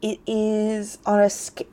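speech broken by hiccups; pausing between hiccups; hiccuping. Real, not acted. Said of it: "I know, I keep hiccuping".

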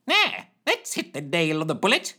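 teeth chattering; through rattling teeth. A narrator's reading. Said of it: "through rattling teeth".

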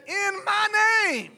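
high, held-out proclamation; proclaimed quote. Retold or imitated. Preacher quotes Jesus to the group, high proclamation. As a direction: lift the phrase high and hold it.

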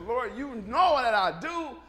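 slow, earnest, pleading confession; humble plea. Retold or imitated. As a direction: confess it sincerely, dragging the last words. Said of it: "He says".

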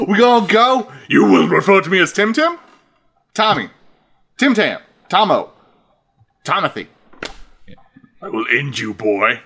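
playground teasing that turns to threat; mock taunt. Taunting Voldemort with silly names, high mocking voice.

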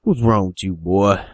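lightly voiced hillbilly father, holding back; understated crazy-dad questioning; crazed hillbilly dad. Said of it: "looks at him all crazy".

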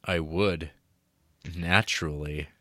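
a hint of a cool, sure Giovanni. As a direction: drop the pitch for a smug Italian suitor.

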